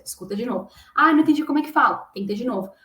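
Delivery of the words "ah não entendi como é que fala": mock frustrated student. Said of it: "imagined frustrated student".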